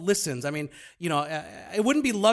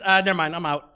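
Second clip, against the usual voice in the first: mocking voice; 5 dB louder than usual. Imitating Reform Pub commenters.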